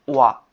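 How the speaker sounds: ওয়া said loudly as one syllable, wa; ha read as wa. Shown as a demonstration. Teacher correcting how ha is read, wa pronunciation. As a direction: give ওয়া firm volume, a w sound instead of h. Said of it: "এটা উচ্চারণ হবে".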